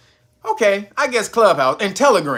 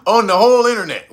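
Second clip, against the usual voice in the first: laughing; 4 semitones higher, 8 dB louder, faster than usual. Real, not acted. Laughs at only two platforms.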